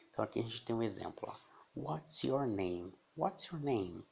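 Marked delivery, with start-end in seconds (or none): 1.7-2.9 pergunta em inglês bem devagar, palavra por palavra; modelo pausado. Shown as a demonstration. Professora modela frase devagar, depois repete. 3.2-4.0 pergunta em inglês ligada, em tom agudo; modelo mais fluente. Shown as a demonstration. Repete a frase mais ligada.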